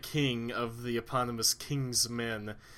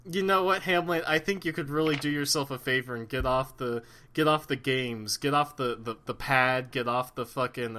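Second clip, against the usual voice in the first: passive-aggressive ghost dad. Acted. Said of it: "my impression of Hamlet's dad".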